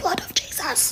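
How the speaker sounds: very quiet, hushed, breathy whisper. Retelling being stuck in bed and praying: imitating her own whisper. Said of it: "I said it in a whisper".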